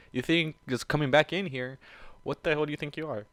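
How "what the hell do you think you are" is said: plain reading voice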